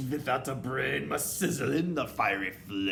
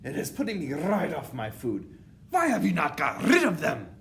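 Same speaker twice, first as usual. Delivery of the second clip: loud, high witch rant swelling to a scream; disgusted witch tyrant; 8 semitones higher, 8 dB louder than usual. A narrator's reading. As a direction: build from outraged complaint to screamed demand. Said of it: "she screamed".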